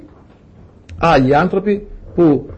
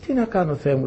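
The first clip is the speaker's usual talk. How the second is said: soft, retold murmur to God; private prayer; 9 dB quieter than usual. Preacher asking God about his stubborn relative, praying quietly. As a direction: drop the volume as if praying privately.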